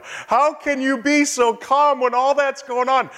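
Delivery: high, incredulous question; amazed onlooker. Retold or imitated. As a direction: ask it like you cannot believe their calm. Onlookers amazed at calm believer.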